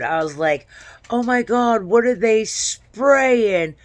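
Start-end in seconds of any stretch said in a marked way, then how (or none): 1.1-3.7 high, frightened cry of alarm; retold scream. Dreamer screaming a warning to the crowd about the spraying, in a high, frightened cry. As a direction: shriek it out in a panic, slowly. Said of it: "like, just screamed".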